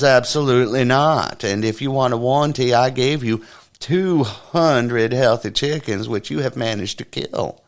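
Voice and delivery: a touch of affronted store owner; indignant denial. Acted. Store man indignantly refuses the accusation.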